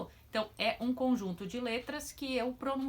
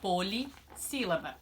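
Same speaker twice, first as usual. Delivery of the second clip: slow term reveal; slower than usual. Shown as a demonstration. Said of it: "como ela vai se chamar".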